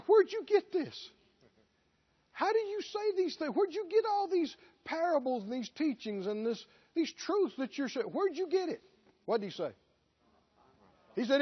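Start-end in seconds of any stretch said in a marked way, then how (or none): 0.1-8.8 much higher, astonished challenging voice; incredulous questioners. Retold or imitated. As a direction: demand to know where he got it. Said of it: "They said".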